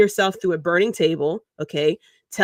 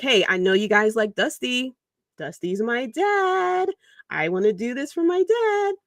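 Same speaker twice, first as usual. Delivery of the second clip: mock sincere Cody; 4 semitones higher than usual. Mocking Cody's heartfelt promo.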